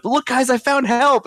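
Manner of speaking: high-pitched, pleased-with-yourself mimicry; mock-innocent excited call; naive cheerful announcement. Acting out Ezra's cheerful arrival.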